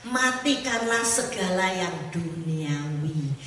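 slow, weighty reading of scripture; slow solemn verse. Shown as a demonstration. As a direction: read each word slowly and solemnly.

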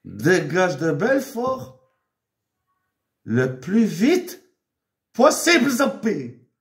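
slow, drawn-out order, rising to a loud end; a father lecturing his daughter, half-hammed; mock stern father. Father telling his daughter Nawel to leave town, mock stern. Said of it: "jamais de ma vie, je parle comme ça".

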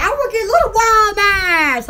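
mock holler imitating an angry man; mild imitated scream; retold loud yell. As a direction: imitate his outburst at moderate volume. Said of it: "Like, loud".

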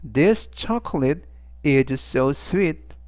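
This chocolate is so sweet, very slow; slow model sentence. Shown as a demonstration. Teacher reading example sentence slowly for class. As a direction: read it out word by word. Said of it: "전체적 의미는".

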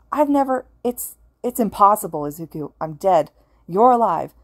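high, loud, near-hysterical rush; near hysterics. Acted. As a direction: spill it out close to hysterics. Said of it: "Oboro was almost in hysterics now".

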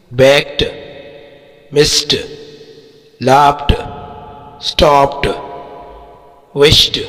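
"baked, missed, laughed, stopped, wished" each ending in a released t. Shown as a demonstration. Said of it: "जो टी साबित होता है". ("baked, missed, laughed, stopped, wished" کے آخر میں ٹی کی آواز)

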